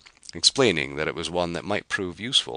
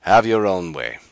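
desperate giving in; 4 semitones higher, 8 dB louder than usual. Acted. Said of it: "he agreed desperately".

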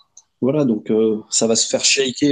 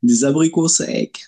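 chewing dried apricots; slow words through a mouthful; mouth full; slower than usual. Real, not acted. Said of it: "tu manges quoi?".

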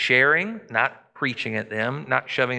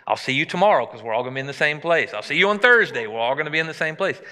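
breezy, higher and louder, quick; mocking casual voice; 3 semitones higher, 3 dB louder, faster than usual. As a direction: mimic a careless churchgoer lightly. Mocking churchgoers' casual attitude.

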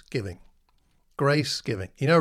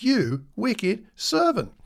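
stern master; 7 semitones higher, much slower than usual. Acted. Master rebukes servant in parable.

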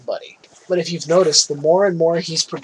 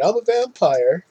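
put-on playful kid vampire; 4 semitones higher than usual. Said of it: "wanna run around going".

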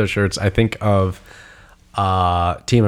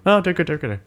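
impressed crowd; 7 semitones higher, much faster than usual. Retold or imitated. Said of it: "they all just go".

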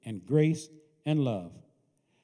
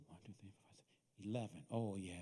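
counting under breath; 9 semitones lower, 18 dB quieter, faster than usual. Acted.

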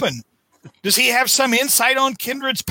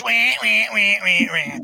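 mock crying wahs. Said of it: "Spidey gets all whiny again".

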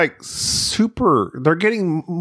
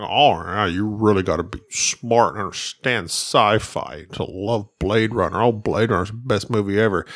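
mocking fans; 6 semitones lower than usual. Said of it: "everybody's like".

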